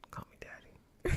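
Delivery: whispered sleazy pickup line; creep voice. Retold or imitated. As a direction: breathe it like a creepy flirt. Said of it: "I don't want you to say daddy like that".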